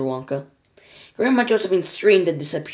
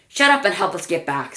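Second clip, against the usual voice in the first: snapped; 3 semitones higher than usual. Acted. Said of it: "snapped Grandma Josephine".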